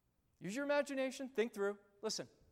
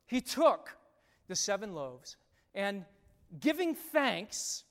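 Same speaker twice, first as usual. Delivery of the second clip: louder, stressed start; emphasized reading; 5 dB louder than usual. Shown as a demonstration. Pastor reading Gentile feeding, stressing words. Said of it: "I'm gonna emphasize certain words".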